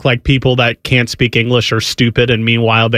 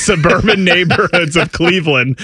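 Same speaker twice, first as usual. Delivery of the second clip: raised, exaggerated Cleveland vowels; mock Cleveland accent; 5 semitones higher than usual. Host insisting the suburbs sound so, mock Cleveland accent. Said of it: "that's what they sound like".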